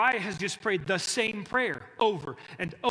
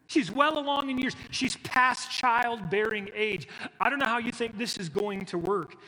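higher, louder, doubting voice; mock disbelief, raised high; incredulous old man; 4 semitones higher, 3 dB louder than usual. Zechariah doubting the angel, higher and incredulous. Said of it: "is how he says it".

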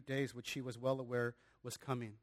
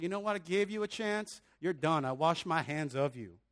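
mock exasperation, building louder on the verdict; acted dismissive; 3 dB louder than usual. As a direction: cut them off as if done with them. Imagined Jesus giving up on people.

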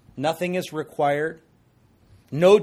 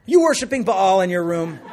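laughing; 6 semitones higher, 10 dB louder than usual. Real, not acted. Mock accusation to kids, laughing.

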